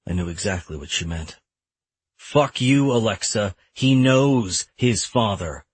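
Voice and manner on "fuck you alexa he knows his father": understated anger, last words drawn slow; angry retort. Acted. Father rebuts ex-wife about who his son's father is, angrily. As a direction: push back, spacing out the final words. Acted custody quarrel with ex-wife.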